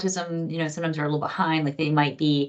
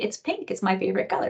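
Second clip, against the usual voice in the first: put-on little girl; 2 semitones higher, 3 dB quieter than usual. Girl telling the adult her favourite colour, in a little-girl voice. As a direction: proudly tell your favourite colour. Voicing the four-year-old girl.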